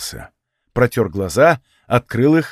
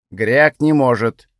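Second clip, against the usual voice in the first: slow, odd goblin speaking of himself; a stubborn little goblin, dragging the words; ворчливый гоблинский голос; slower than usual. Acted. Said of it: "ответил гоблин".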